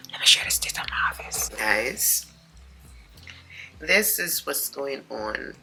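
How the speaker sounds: fast hushed whisper. Real, not acted. Vlogger whispering at dawn so the house stays asleep. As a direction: whisper so nobody upstairs wakes.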